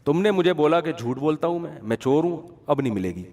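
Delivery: نیچی آواز میں روٹھا ہوا دکاندار; ضد سے انکار، آواز دبی ہوئی; offended seller refusing. Retold or imitated. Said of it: "اس نے کہا". (ناراض سبزی والا گاہک کو انکار کرتا ہے، دبی آواز میں)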